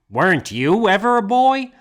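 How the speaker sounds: high, loud disbelieving question; can't believe what he's hearing; teacher mock-amazed at his colleague; incredulous. Leo teasing the narrator.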